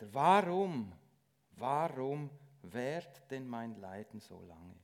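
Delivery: normal talking voice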